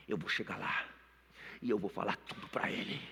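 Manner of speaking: low, soft and measured; hushed, determined self-talk; quiet resolve. Retold or imitated. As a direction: say it low, as if rehearsing to yourself. Rehearsing what he will tell father.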